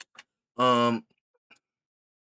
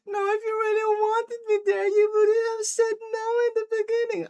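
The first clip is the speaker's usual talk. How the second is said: very high, wailing whine; mock tantrum; faster than usual. Girlfriend rejecting late invite, mock tantrum. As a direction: keep up a squeaky, whining protest. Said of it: "was having a tantrum".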